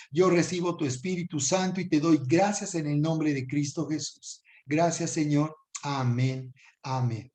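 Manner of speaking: earnest, measured prayer to God; sincere prayer; led prayer. Acted. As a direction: pray it slightly subdued, line by line for others to join. Leads a prayer.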